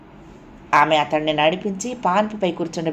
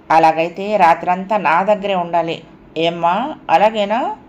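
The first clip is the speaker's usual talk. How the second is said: mock childlike pleading; 3 dB louder than usual. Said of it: "చిన్నపిల్లలాగా అడిగింది".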